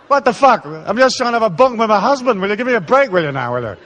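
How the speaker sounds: wife fed up with bedroom rules, exasperated. Retold or imitated. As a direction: throw up your hands at all the rules. Exasperated wife voiced amid rules.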